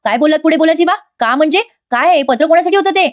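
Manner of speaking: high, pressing acted questioning; demanding questions. Wife demanding whom the letter was for, insistent. Nandini demands he finish his sentence.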